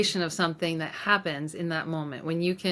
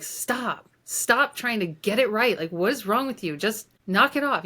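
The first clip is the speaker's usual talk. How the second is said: mock scolding; 4 semitones higher than usual. Scolding her inner child for trying to get it right, mock angry. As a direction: snap at the part that won't stop, half-acted. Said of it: "scold it".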